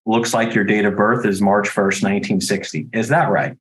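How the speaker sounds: steady, unhurried professional caller who stays neutral; neutral, unexcited cold-call delivery; calm phone voice. Shown as a demonstration. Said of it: "it's the same exact thing".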